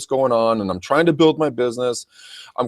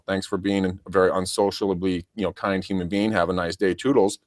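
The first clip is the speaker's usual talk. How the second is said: sarcastic sign-off; 4 semitones lower, 4 dB quieter than usual. Retold or imitated. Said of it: "let 'em go and say".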